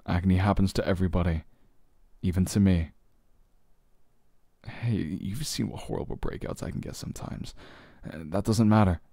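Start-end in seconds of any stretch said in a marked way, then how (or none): 4.7-8.2 soft whisper. Acted. Teasing confession to partner.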